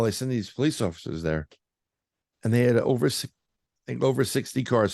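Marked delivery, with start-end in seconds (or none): 2.4-4.9 talking through hiccups; speech broken by hiccups. Real, not acted. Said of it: "I have the hiccups right now".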